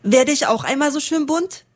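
little sparrow asking its mother, eager and high. Acted. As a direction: ask like a small bird longing to be pretty. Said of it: "fragte ein Spatzenkind".

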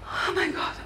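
whisper. Acted. Overwhelmed whisper.

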